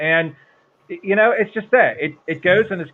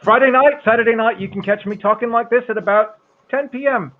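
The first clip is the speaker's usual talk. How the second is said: put-on drunk British voice; 3 semitones higher than usual. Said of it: "this is my drunk British voice".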